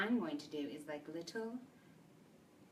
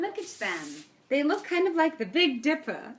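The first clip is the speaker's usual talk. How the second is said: high, loud, laughing delivery; 9 semitones higher, 11 dB louder than usual. Real, not acted. Baker showing off the decorated cupcakes, laughing loudly. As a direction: burst out amused, laughter breaking into the words.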